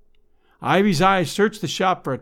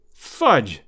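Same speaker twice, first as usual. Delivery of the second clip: exclaiming; 5 semitones lower than usual. Acted. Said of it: "exclaimed Ivy".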